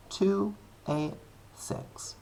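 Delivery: slow hushed reveal of the answer; dramatic whisper. Real, not acted. Teacher revealing the answer to students in a slow whisper. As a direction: breathe the answer out slowly like a secret.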